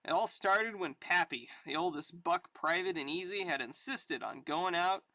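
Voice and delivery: lively dramatic reading with soldier banter; comic story narration. Acted. Sergeant Rock and Pappy bantering on patrol, story narration. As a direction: read it like a war yarn.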